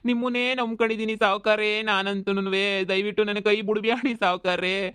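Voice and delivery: hammed-up begging; cling to the master with words; overacted pleading. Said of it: "ಶಾನೆ over acting ಮಾಡಿದ್ರೆ".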